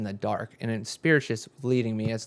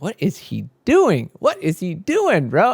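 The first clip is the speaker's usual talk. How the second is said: puzzled; 7 semitones higher, slower than usual. Retold or imitated. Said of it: "and I was like".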